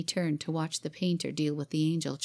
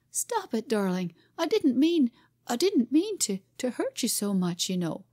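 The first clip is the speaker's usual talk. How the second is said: higher, louder panicky pleading; pleading father; 6 semitones higher, 3 dB louder than usual. A narrator's reading. Father pleading with his howling child, high and panicky. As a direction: beg her to stop, flustered.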